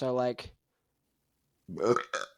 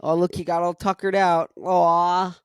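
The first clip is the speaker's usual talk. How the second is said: put-on louder, higher cooing over a tired kid; cooing parents; 4 semitones higher, 6 dB louder than usual. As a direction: coo like a doting parent watching a worn-out kid. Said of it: "they'd be like".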